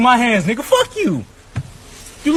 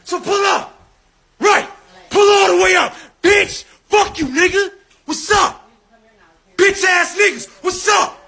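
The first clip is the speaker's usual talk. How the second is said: higher, heated yelling at a cop; angry shouting; 4 semitones higher than usual. Real, not acted. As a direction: shout him down, furious and taunting. Yelling at police officer.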